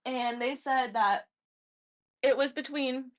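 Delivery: talking around a bite of ice cream; mouth full. Real, not acted. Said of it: "I'm sorry, I'm eating ice cream".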